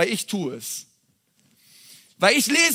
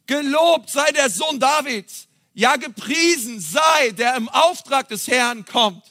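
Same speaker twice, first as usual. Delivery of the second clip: raised, drawn-out acclamation; crowd calling praise; 3 semitones higher than usual. Acted. Preacher voices the crowd hailing the king, calling praise. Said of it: "drängten sich die Menschen und riefen".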